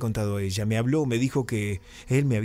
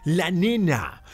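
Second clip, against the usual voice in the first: sudden loud, much higher cry of alarm; panicked yell; 7 semitones higher, 3 dB louder, much slower than usual. Retold or imitated. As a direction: shout it in terror for the child.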